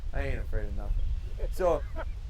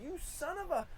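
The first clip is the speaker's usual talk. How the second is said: higher mock angry call; half-hearted mock yell; mock hollering; 14 semitones higher, 5 dB quieter than usual. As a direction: imitate an angry owner yelling at the dog. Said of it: "hollering and hollering".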